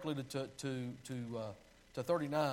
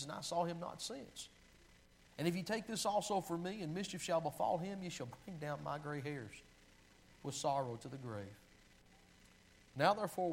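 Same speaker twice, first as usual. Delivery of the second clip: earnest humble plea with pathos; pleading. Acted. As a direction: read it as Judah begging for his father's sake. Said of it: "Can you hear the pleading in Judah's voice?".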